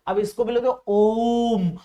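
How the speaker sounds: "ओम" held long and slow; drawn-out om. Shown as a demonstration. Teacher models the long om, slightly slowed. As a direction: stretch "ओम" out slowly. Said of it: "खींच के बोलते हैं".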